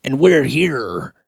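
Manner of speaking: slow hyped ring announcer; wrestling announcer. Acted. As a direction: stretch it like a wrestling promo. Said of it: "like a pro wrestling thing".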